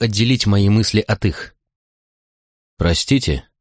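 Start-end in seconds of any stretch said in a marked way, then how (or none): 2.8-3.5 mildly polite apology. A narrator's reading. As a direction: excuse yourself politely, without pushing. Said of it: "вежливо сказал я женщине". (вежливо)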